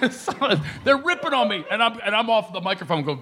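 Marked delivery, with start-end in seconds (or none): none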